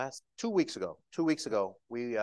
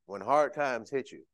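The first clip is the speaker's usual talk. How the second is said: quoting a good man; 3 semitones higher than usual. Retold or imitated. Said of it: "He used to always say".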